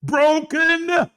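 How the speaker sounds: high, loud burst on one word; incredulous shout. Real, not acted. Preacher challenging the congregation's identity, incredulous shout. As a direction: fling the label back at them. Climax of challenged list of labels.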